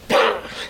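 breathy mimed sound of a light turn; small wheel-turn noise. Shown as a demonstration. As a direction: sound out a tiny twist of the wheel. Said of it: "just like this".

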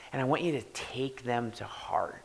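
soft, breathy urging to take words to heart; hushed earnest appeal. Real, not acted. Pastor quietly urging the congregation, hushed. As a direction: drop to a near whisper, pleading. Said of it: "pastor's earnest appeal".

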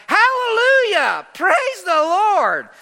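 high, very drawn-out roar of praise; thunderous shout. Acted. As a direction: belt it out like peals of thunder.

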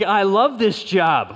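happy husband. Retold or imitated. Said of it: "I'm like".

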